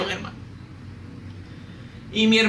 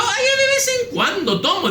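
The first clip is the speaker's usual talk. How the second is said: high, mocking voice of a casual drinker; "de vez en cuando tomo" pitched high, teasing; mock drinker excuse; 13 semitones higher than usual. Preacher mocking drinkers' excuses, high and teasing. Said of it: "dicen algunos".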